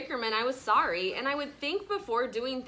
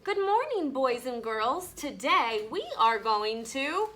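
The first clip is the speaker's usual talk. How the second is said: lightly voiced teacher. Teacher voice in a story.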